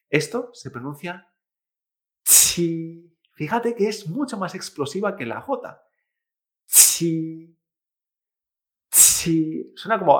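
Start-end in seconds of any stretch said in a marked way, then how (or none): 2.2-9.7 "chi" with an explosive puff of air; aspirated Chinese Q. Shown as a demonstration. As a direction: release a burst of air on "chi", then hold the vowel. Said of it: "sacando aire antes de la vocal".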